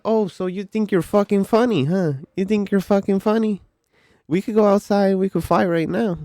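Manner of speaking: loud, high imitation of a furious customer; angry challenge. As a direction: act out squaring up for a fight. Customer challenges him to fight.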